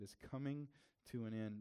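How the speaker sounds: "coming" leaned on and stretched, then "to an end" slowed; stress on coming. Shown as a demonstration. Pastor repeating a verse to the church, stressing "coming". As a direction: linger on "coming" so it sinks in. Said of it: "I want you to think of that".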